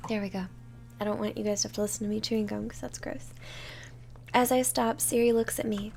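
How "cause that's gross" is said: whispered aside. Real, not acted. Aside after gum chewing.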